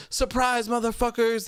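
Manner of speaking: high, gleeful mock shout; spring it on them with glee. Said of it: "enters and says".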